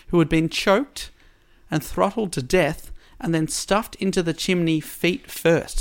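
measured storytelling, lingering on key words; story narration. A narrator's reading. Podcast host recounts the double murder at Rue Morgue, story narration. Reads prepared story summary aloud.

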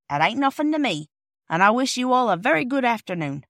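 high, loud cockney dismissal; huffy porter. Acted. Porter sending the children away, huffy and emphatic. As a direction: dismiss them with wounded dignity.

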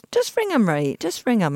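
lightly voiced mum, high at the start; mum's brisk nudge, pitch jumping then falling; urging mum. Retells mum urging her on.

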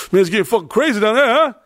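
high, fast New York security guy; New York accent. Retold or imitated. Security guy warning about the terminal, imitated New York accent. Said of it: "security guy comes out, this from New York".

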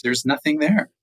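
milder dismay. Acted. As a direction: repeat the discovery with only a touch of dismay. Same discovery repeated, more subdued.

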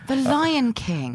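slow, laughing repeat. Real, not acted. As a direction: savour it through a laugh.

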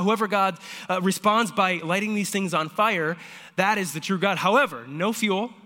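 fast, loud, high pitch of the contest; playful hyped-up announcer; eager challenge. Retold or imitated. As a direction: sell the god competition like a hype man. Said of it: "And so he says".

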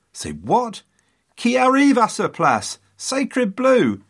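high-pitched, hammed-up French astonishment; incredulous French ambassador. French ambassador at Mary's sudden victory, comically incredulous. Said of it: "The French ambassador was equally incredulous".

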